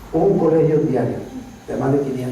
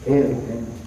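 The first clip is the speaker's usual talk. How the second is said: low, softened retold approval; gently approve, as to a child; tender, pleased fatherly murmur; God's fatherly reply; 3 semitones lower, 3 dB quieter, slower than usual. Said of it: "El Señor me dijo".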